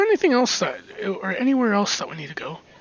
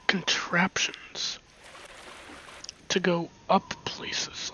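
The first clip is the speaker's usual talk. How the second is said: whispering; 7 dB quieter, slower than usual. Real, not acted. Puzzled muttering at contraptions.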